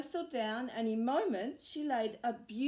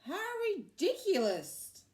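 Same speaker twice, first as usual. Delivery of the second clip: laughing; 9 semitones higher, 4 dB louder than usual. A narrator's reading. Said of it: "laughed Cockerel".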